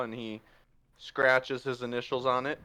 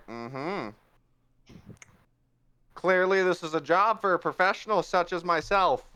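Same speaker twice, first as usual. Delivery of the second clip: a lightly voiced, self-assured Puss, a touch higher; smug cat swashbuckler; 5 semitones higher than usual. Puss boasting to the party, lightly voiced smug cat. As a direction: preen like the expert in the room. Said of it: "He's like".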